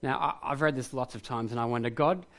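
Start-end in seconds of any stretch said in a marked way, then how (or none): 1.9-2.3 pleading for loud proof. Pretend. Preacher voicing his question to God.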